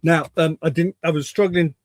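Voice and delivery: puffed from rushing to get here; out of breath. Real, not acted. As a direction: talk while catching your breath. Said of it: "a bit out of breath".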